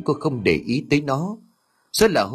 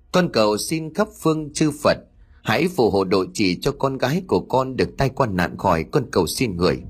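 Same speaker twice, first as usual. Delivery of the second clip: murmured prayer. A narrator's reading. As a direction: pray earnestly, pitch falling phrase by phrase. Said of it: "chắp tay lâm dâm khấn vái". (khấn vái cầu xin)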